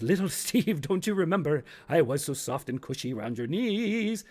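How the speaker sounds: lightly voiced nostalgic trousers; coaxing pants. Old pants remind Steve of past comfort, coaxing voice. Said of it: "Pants goes".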